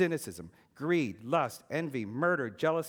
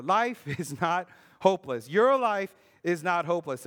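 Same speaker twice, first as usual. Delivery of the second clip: building to a louder declaration; getting louder; 5 dB louder than usual. Retold or imitated. The voice grows louder over the boy in the night, building declaration. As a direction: grow louder with each phrase, fist raised. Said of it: "that voice just get louder and louder".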